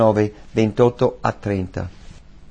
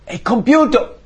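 much higher and louder; triumphant cry; 13 semitones higher, 5 dB louder than usual. Retold or imitated. Preacher voicing Jesus declaring the debt paid, loud and high. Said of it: "ha detto".

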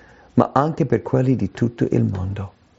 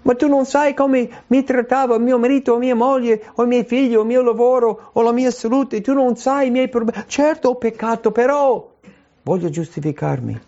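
higher, pleading voice of someone excusing themselves; whiny excuse; 10 semitones higher than usual. Acted. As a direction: play the sinner who wriggles out of blame. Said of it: "Vogliamo scusarci". (voce lamentosa di chi si giustifica)

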